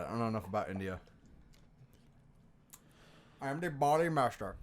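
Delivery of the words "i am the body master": put-on Indian-accented title announcement; Indian Godfather. Comedian trying titles for India's Godfather, Indian accent. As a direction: introduce yourself in an Indian accent. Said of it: "would you call the Godfather in India".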